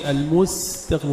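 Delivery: المستقيم with an airy, audible s; whispered-letter sin. Shown as a demonstration. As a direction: let the s hiss in المستقيم. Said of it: "نهمس السين". (نطق المستقيم بهمس السين)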